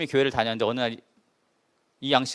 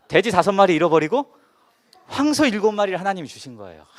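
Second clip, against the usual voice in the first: louder and higher, bursting with joy; a sudden jubilant outburst; excited; 5 semitones higher, 8 dB louder than usual. Retold or imitated. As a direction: blurt out the good news like a miracle. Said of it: "막 이게 막 흥분이 된 거예요".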